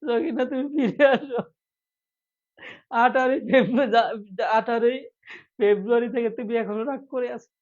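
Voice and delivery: hammed-up plea to an estranged sweetheart; melodramatic pleading. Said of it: "sir চমৎকার অভিনয়".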